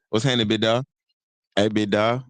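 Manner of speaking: imitated Atlanta drawled greeting; Atlanta accent. Showing how they always greet in Atlanta, Atlanta accent. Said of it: "in Atlanta, they, it's always like".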